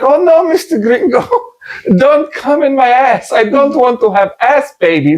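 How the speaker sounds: high-pitched mock Latina accent; comic Latina impression, pitched high. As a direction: plead in a hammed-up Latina accent. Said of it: "one of those Latina made ones".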